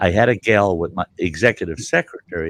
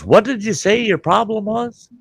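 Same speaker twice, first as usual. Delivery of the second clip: high, louder yokel voice; backwoods son; 12 semitones higher, 3 dB louder than usual. Retold or imitated. Man at porch asking the stranded traveler, high yokel voice. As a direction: play the gruff local son. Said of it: "and he goes".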